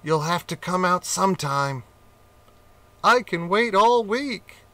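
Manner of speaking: smug patient cat; taunting cat. Acted.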